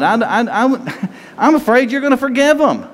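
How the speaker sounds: real laugh breaking into the words; chuckling through an honest confession. Real, not acted. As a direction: giggle while admitting a fear. Preacher laughs at own confession.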